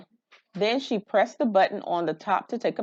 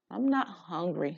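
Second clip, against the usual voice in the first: softer, downcast; quiet sad reply; 6 dB quieter than usual. Acted. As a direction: answer her dad without energy. Sad girl at dinner.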